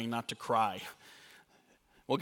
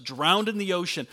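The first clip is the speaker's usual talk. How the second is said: rising louder and higher; building emphasis; 6 semitones higher, 6 dB louder, faster than usual. Real, not acted. Preacher driving the point home to his church, building loud. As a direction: climb to a passionate peak.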